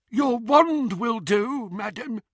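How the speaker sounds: high, slow goblin demand; a goblin calling her bluff; nasty nasal goblin sneer. A narrator's reading.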